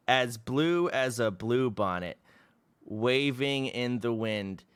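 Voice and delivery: put-on slow, lilting recital of a child's poem; reading his childhood love poem aloud, slow and lilting. Shown as a demonstration. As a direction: savor each "blue" slowly. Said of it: "I haven't read this one yet".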